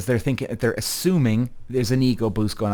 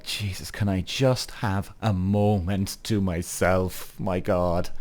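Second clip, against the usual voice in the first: exasperated; 5 semitones lower, slower than usual. Retold or imitated. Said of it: "and you're like".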